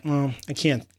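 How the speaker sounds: usual speaking voice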